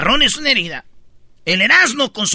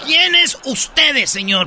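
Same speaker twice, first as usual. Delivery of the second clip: indignant shout; 3 semitones higher, slower than usual. Real, not acted. Indignant slow shouted question.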